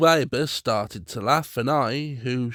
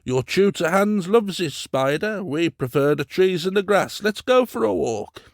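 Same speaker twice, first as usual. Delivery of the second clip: kindly; 7 semitones higher, 5 dB louder than usual. A narrator's reading. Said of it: "said to me in a kindly way".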